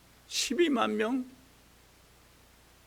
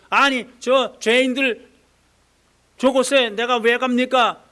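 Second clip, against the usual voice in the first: angry protest; 6 dB louder than usual. Acted. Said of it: "요나가 화가 났어요".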